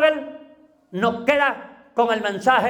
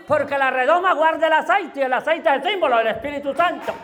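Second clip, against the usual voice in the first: fervent preaching; faster than usual. Real, not acted. Preacher rising in fervor.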